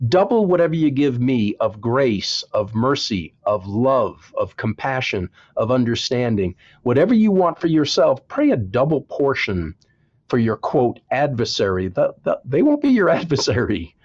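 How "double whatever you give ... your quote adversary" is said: earnest prayer. Retold or imitated.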